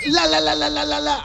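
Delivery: high teasing la la la; mocking singsong. Man mocking people who refuse to hear with high singsong. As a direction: mimic someone covering their ears.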